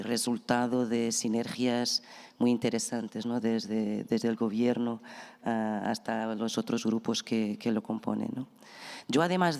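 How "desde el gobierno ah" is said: usual speaking voice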